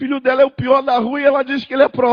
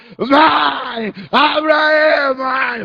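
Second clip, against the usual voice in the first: very slow, stretched shout, mãe dragged long; 2 semitones higher than usual. Retelling kicking and pounding the door: imitating his own past shouting. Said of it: "Chutava a porta e esmurrava".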